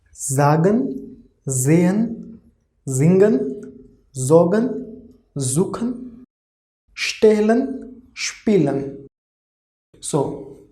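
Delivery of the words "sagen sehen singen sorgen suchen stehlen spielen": word list read slowly with voiced s; dictionary pronunciation. Shown as a demonstration. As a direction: say each word the German way. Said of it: "we will repeat".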